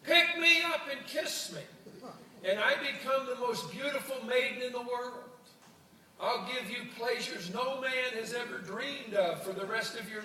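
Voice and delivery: high, squeaky frog making grand promises; a tiny frog selling himself as a beautiful maiden. Acted. The frog tempts the old man from his feet, high and eager. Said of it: "the frog looks up at him and says".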